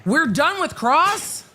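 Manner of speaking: high, slow, disbelieving "done already?"; surprised question. Real, not acted.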